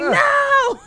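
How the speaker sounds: emphatic laughing no. Retold or imitated. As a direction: shut the mix-up down with amused exasperation.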